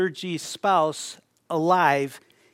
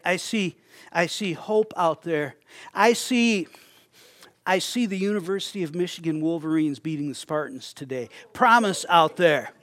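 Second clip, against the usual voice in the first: hopeful vision. Shown as a demonstration. Preacher voicing a hopeful believer's vision, building excitement. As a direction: swell with hope as the vision grows. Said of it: "My vision is different than yours".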